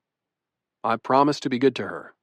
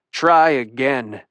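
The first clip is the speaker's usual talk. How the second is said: stern; slower than usual. Acted. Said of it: "he says with a hard stare".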